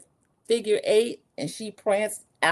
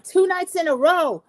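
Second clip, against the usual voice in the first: mock cheer; 11 semitones higher, 5 dB louder than usual. Recapper mocks the celebration.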